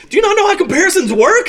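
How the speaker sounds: high, loud incredulous question; exasperated retort. Retold or imitated. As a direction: replay the argument in shrieking exasperation. Retold argument with online critic.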